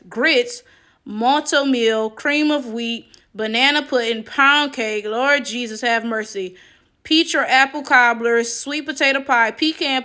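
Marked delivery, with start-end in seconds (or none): none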